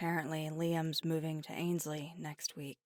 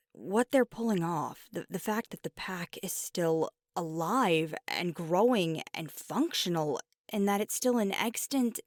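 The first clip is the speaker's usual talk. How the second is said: impassioned praise; 4 dB louder than usual. Acted. Impassioned praise of parents' pack.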